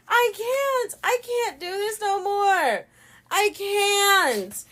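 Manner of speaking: high, strained mock sob through the words; teary hammed-up despair; mock crying. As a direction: play it as near tears from the heat, half-joking. Retold breakdown over heat.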